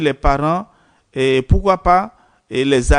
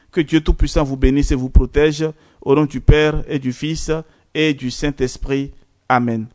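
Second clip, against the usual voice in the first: a gentle liturgical blessing, measured and calm; priestly blessing. Acted. Priest blessing his parishioners at the end, liturgical. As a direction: bless the faithful as you close the prayer.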